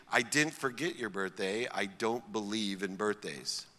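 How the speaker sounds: the father's dismissive reply, said softly; quiet dad voice. Retold or imitated. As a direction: let the father's words drop quietly. Dad's cold answer retold.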